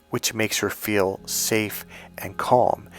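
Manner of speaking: soft slow whisper, easing the words out; whispered calm. Real, not acted. Host whispers to listeners about feeling calm, slow whisper. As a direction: breathe it like a lullaby.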